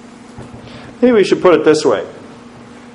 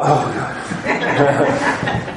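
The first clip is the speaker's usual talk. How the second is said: laughing; 6 dB quieter than usual. Real, not acted. Laughing at own gasp.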